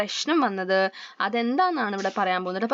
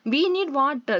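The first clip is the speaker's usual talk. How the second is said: a touch louder, higher call for water; mild loud call; 4 semitones higher, much slower than usual. Acted. The blue group calls loudly for water, mildly raised. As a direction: call out lightly to the others. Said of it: "the blue group said loudly".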